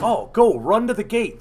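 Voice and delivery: mock urging them to hurry; urgent send-off. Airport staff urge them to run.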